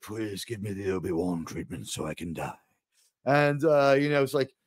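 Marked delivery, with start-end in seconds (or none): 0.0-2.5 tuned-out mumble. Retold or imitated. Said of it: "He's just like".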